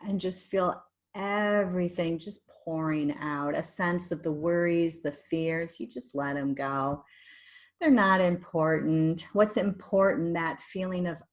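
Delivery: guided meditation. Shown as a demonstration. Leads a guided relaxation meditation.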